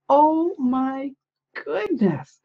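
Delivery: high "oh my", then "goodness" breathed in a whisper; whispered amazement at a lovely card; awed whisper. Real, not acted. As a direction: let the awe steal your voice.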